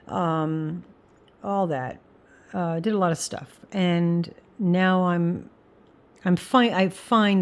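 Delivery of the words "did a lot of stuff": ordinary talk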